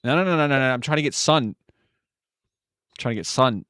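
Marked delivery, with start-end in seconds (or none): 1.8-3.6 slow, drawn-out lilting line; slow sing-song. Acted. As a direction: stretch it out, rising at the end.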